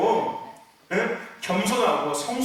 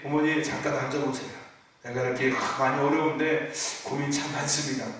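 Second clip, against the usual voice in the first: lower, soft and respectful; calm respectful talk; 7 semitones lower, 4 dB quieter than usual. Retold or imitated. Child calmly sharing worries with mother, soft respect. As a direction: speak to mother gently and maturely. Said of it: "이게 더 좋은 거잖아요".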